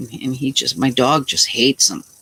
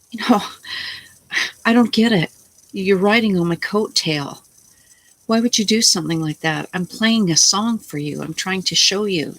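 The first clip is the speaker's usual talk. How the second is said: retold anger; 5 semitones higher than usual. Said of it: "I just got so pissed off".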